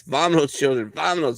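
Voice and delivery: lightly voiced Joaquin Phoenix; playful film impression; mimicking film character. Imitating Joaquin Phoenix in Signs.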